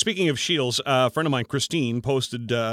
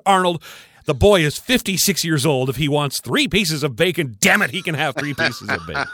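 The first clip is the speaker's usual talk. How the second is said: snapping; 3 semitones higher, 4 dB louder than usual. Retold or imitated. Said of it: "she snapped".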